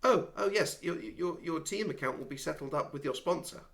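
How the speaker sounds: high-pitched official, stumbling over the start; flustered race official. Acted. Game master voices a pit official.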